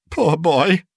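high, tender lament; pitying. A narrator's reading. Scrooge pities his lonely boyhood self, sorrowfully. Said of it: "in pity for his former self".

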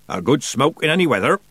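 lilting, reassuring sailor; soothing. A narrator's reading. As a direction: soothe with a sing-song line. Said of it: "he said soothingly".

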